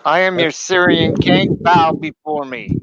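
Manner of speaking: dark lord. Acted. Proclaims himself king, demands bowing.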